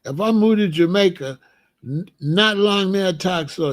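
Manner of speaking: first light try at a Jamaican lilt, barely shifted; easing into Jamaican patois, still mostly his own voice; Jamaican accent. Pretend. Imagining moving to Jamaica, a faint Jamaican accent. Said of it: "I'm gonna be talking Jamaican".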